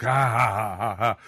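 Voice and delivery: loud hammy mwa-ha-ha cackle; gloating mock evil laugh; evil villain laugh. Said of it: "he was the mustache twirling villain".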